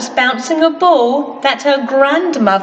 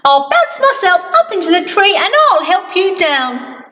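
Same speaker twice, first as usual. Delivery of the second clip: mildly voiced Mister Bounce; 5 semitones higher than usual. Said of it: "Mister Bounce".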